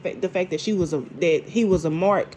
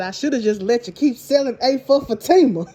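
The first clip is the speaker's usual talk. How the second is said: can't keep a straight face on the line; recapping the burn while cracking up; laughing quote; 3 semitones higher than usual. Retold or imitated. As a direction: quote him through laughter. Quoting Hayden while laughing.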